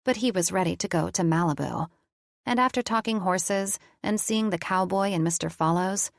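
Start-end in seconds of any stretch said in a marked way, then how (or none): 0.0-1.9 even, measured storytelling read; story narration. A narrator's reading. Narrator reading her romance novel aloud.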